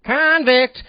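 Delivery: loud sung-out ad-lib shout; mock singer's ad-lib; impression of a singer. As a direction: belt the word like a singer's hook. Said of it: "this is my impression of a singer".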